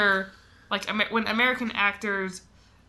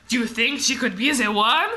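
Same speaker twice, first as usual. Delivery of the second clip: bad French accent; 3 dB louder than usual. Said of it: "That is such a bad French accent".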